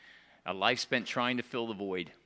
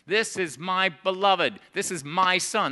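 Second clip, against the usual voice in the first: voice of God; 4 semitones higher, 7 dB louder, slower than usual. Acted. Preacher voices God the Father.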